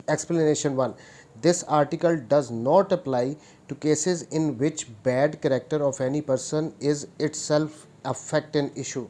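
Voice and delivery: slow, deliberate dictation of the law text; reading the statute. Shown as a demonstration. Law teacher reading the act aloud to students, slow dictation pace. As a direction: spell it out word by word so students can note it down.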